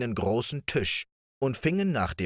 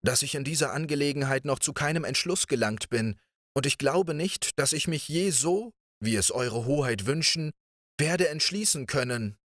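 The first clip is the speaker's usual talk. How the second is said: lightly voiced princess, hesitant and higher; embarrassed princess; 7 semitones higher than usual. A narrator's reading. The princess evades Riquet's proposal, lightly voiced and embarrassed. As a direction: hedge politely, a touch awkward. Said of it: "sagte die Prinzessin verlegen".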